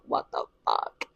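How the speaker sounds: whispered disbelief; stunned whisper. Retold or imitated. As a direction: mouth it in breath only, astounded. Reliving stunned disbelief, unvoiced.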